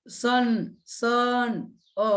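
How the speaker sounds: "सन" stretched slowly on its short uh vowel, then "अ" alone; drawn-out sounding out. Shown as a demonstration. Teacher showing an O sound in son, slowly sounding out "सन" and "अ". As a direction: draw out "सन", then isolate "अ". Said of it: "ओचा उच्चार".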